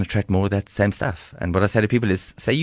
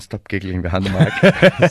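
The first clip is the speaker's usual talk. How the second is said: laughing; 6 dB louder, slower than usual. Real, not acted. Laughing at co-host behind mic.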